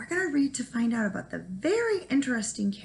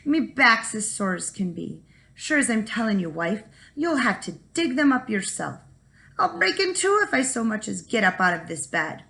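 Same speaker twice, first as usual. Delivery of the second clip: whining. Acted. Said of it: "Jamie would whine".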